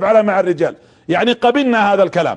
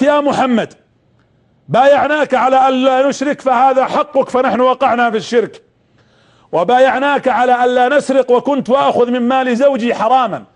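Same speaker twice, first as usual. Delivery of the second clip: raised, higher voice of an indignant woman protesting; retold outcry; 3 semitones higher than usual. Hind stands and cries out to the Prophet, indignant raised voice. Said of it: "وقفت هند وصرخت".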